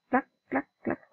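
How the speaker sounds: crisp little clack, clack, clack; imitated flipping clack. Shown as a demonstration. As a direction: mimic the counter flipping over in separate clicks. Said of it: "este es este que va".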